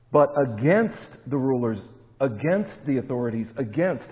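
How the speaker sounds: each "against" hit firmly at the start of the phrase; repeated "against" pressed hard; stress on against. Shown as a demonstration. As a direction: land on "against" every time. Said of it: "I'll emphasize that word".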